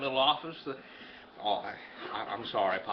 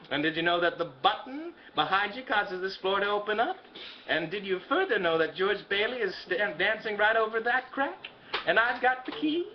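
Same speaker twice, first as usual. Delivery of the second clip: sly villain voice; 4 semitones higher than usual. Retold or imitated. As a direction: lightly menace him like a cartoon schemer. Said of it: "Why are you talking like that?".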